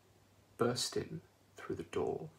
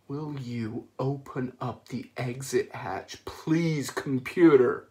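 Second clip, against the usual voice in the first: restrained patience; 8 dB louder, slower than usual. Acted. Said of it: "trying not to get angry".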